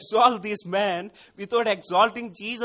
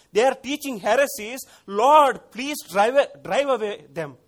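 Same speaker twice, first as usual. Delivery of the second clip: fervent pleading prayer; 3 semitones higher, 5 dB louder than usual. Retold or imitated. Model pastor pleading aloud with the Lord for his church. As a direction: cry out to God for a straying church. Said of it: "I can guess like this".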